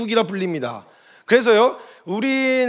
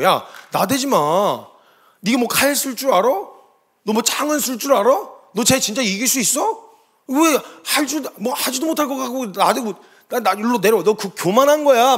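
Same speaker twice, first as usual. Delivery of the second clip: imitated taunting, raised questions; scornful scolding; 4 semitones higher than usual. Older brothers berate David for showing off, imitated scornful scolding. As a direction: belittle him with drawn-out, challenging questions. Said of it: "막 욕을 엄청 먹었거든요".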